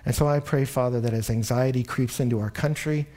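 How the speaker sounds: earnest spoken prayer to God. Real, not acted. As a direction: pray over the congregation, sincere and steady. Leads a closing prayer.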